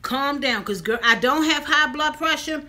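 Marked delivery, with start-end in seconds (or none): 0.0-0.6 soft, hushed calm down to herself; self-soothing murmur. Retold or imitated. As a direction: talk yourself down quietly. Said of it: "I have to keep telling myself".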